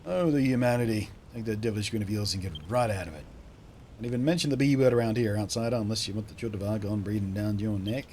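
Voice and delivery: put-on old local, aghast; alarmed old barman. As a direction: warn the outsider off dramatically.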